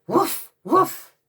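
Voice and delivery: loud, high woofing; dog bark. Acted. Imitating dog's bark.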